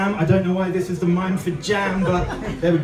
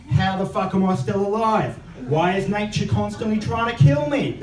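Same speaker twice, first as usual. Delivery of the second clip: mock Australian. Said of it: "If you're from Australia".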